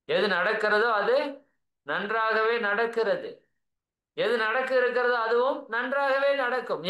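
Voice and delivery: slow, measured scripture quote; lightly declaimed holy verse; Gita recitation. Acted. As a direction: recite it like a verse, drawing out the words. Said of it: "அதான் கீதை அழகா சொல்லுது".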